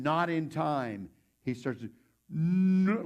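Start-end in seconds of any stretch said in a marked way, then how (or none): 2.3-3.0 long, high, loud mock "no"; slow-motion shout. Soldier trying to stop his buddy, slow-motion yell. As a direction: stretch the cry like a film replay. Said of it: "like slow-mo".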